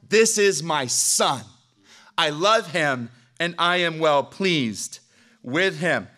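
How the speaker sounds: slow, solemn voice of the Father; voice from heaven. Acted. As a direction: let each word land slowly, like a proclamation. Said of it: "a voice from heaven thunders".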